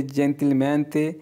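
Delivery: "gentilmente" drawn out syllable by syllable; slow model word. Shown as a demonstration. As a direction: spell out "gentilmente" slowly for learners. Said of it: "teacher models Italian word". ("gentilmente" बहुत धीरे, हर अक्षर अलग)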